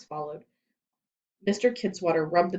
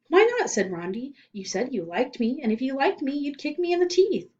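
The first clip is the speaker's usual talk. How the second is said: put-on higher, louder childish pleading; girl's pleading whine; 7 semitones higher, 3 dB louder than usual. A narrator's reading. Rondi begging Louis, higher pitched whine. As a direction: beg like a stubborn little girl.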